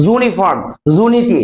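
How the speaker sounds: "ইউনিফর্ম" and "ইউনিটি" said as "zuniform", "zunity"; "zoo" opening on "ইউনিফর্ম" and "ইউনিটি"; J sound. Shown as a demonstration. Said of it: "উচ্চারণটা হয় জ".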